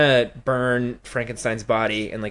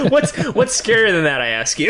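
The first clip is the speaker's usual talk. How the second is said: hammy stage actor; 8 semitones higher, 5 dB louder than usual. Pretend. Repeats the line laughing, higher.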